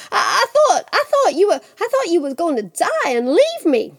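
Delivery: put-on high, faltering boyish outpouring; emotional stammer. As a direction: blurt out the fear you had for her. Jack tearfully relieved at mother.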